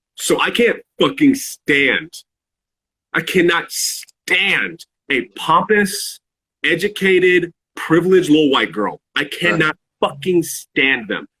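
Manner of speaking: harsh, venomous, angry, mean, unfiltered outburst. Saying a view the unedited way before the other rewords it: angry and mean. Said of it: "So I'm gonna say this angry, mean".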